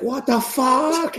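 very high and slow, disbelieving; stretched shocked squeal. Retold or imitated. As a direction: drag it out in cartoon shock. Boy shocked in recap.

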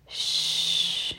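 soft, whispered shush; hushing. A narrator's reading. Narrator voices man silencing his lover, hushing. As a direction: hush her under the breath. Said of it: "he replies".

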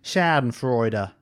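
Schadenfreude in plain English accent, drawn out; non-German accent. Shown as a demonstration. Podcaster showing cohost that it doesn't work, non-German accent. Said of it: "say German words in a non-German accent".

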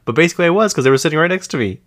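high, loud and fast; excited rush. Real, not acted. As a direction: blurt it out excitedly.

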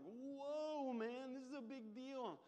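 high, loud startled whoa; mock alarm. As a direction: act caught off guard. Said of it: "we were like".

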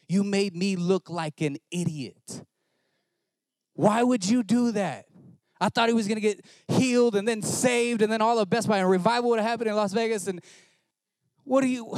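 high, loud, exasperated cry at God; hammed-up fury, pitch climbing; retold angry rant. Preacher reenacting his rant at the Lord, loud and high. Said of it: "very angry with the Lord".

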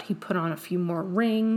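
ordinary talk

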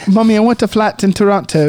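lightly played pleading child, joke Detroit accent; mock Detroit accent. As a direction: ask mummy in a put-on Detroit accent. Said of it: "here's your Detroit accent".

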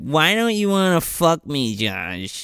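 lightly put-on voice of a drunk girl; a hint of drunk, pleading girl; mock drunk girl. Retelling the drunk girl's line to Josh, lightly mocking.

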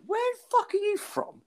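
high, strained mock Northern Irish accent; bad Northern Ireland accent. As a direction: imitate a man failing at a Northern Irish accent. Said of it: "speaking in a Northern Ireland accent".

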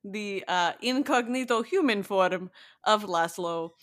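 a light, hammed-up Eastern European vampire accent; a podcaster playing a crappy Eastern European vampire, lightly. Co-host chatting about a vampire show, in a mock Eastern European vampire accent. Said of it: "funny Eastern European crappy vampire accent".

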